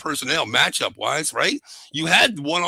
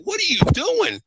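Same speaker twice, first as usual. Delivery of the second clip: shouting at the TV. Retold or imitated. Coach yelling at the TV in disbelief. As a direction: yell it at the screen in disbelief. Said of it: "I was like".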